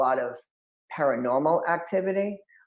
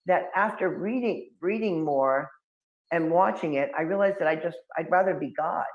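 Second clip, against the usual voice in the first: put-on cheeky kid explanation; 4 semitones higher than usual. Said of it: "And I'm like".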